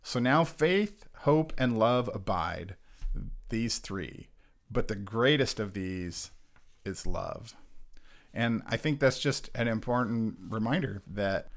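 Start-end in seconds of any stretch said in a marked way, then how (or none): 0.0-7.5 slow, deliberate Bible reading; scripture reading. Acted. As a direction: read the verse slowly and solemnly. Reads scripture aloud.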